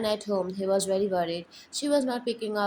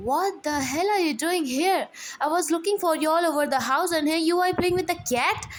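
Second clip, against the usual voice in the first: husband yells at his missing wife, angry; yelling; 6 semitones higher than usual. Acted. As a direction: snap at her for vanishing. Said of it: "They yell".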